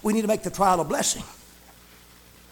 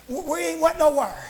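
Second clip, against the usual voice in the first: raised-pitch revival preaching; fervent preaching; 6 semitones higher than usual. Real, not acted. Preacher telling how Paul stayed put, fervent preaching. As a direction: preach it with rising fervor.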